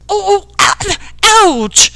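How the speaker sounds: high, frantic string of ows; loud pained yell. A narrator's reading. Jack pelted by stones, yelling loudest. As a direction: yell in pain, outdoing your friends. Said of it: "even louder".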